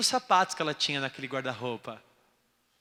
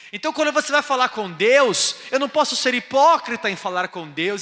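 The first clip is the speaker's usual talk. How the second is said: loud, high sermon cry; preaching; 6 semitones higher, 9 dB louder than usual. Acted. Pastor preaching to the church, loud and high. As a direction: preach it hard to the crowd.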